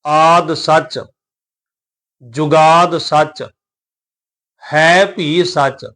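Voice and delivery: very slow, drawn-out vowels and a rest after each phrase; recitation with pauses. Shown as a demonstration. Teacher shows where to rest in the verse, slow paused recitation. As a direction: recite slowly, pausing after every phrase. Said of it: "ਇੱਥੇ ਵਿਸ਼ਰਾਮ ਦੇ ਕੇ ਪਾਠ ਕਰਾਂਗੇ".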